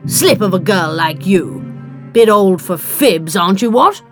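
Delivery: belligerent, blustering put-down; combative, loudening bluster; Montmartre. A narrator's reading. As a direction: scold the girl like an affronted old boaster. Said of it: "Montmartre said belligerently".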